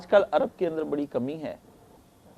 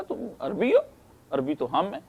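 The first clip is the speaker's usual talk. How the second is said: mock indignant Arab; 5 semitones higher than usual. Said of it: "اس نے کہا".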